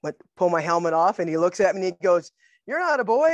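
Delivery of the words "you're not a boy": high, loud disbelief, acted out; mock-shocked exclamation at a raised pitch; astonished coach. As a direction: blurt out the discovery as the coach. Coach's surprise on seeing her.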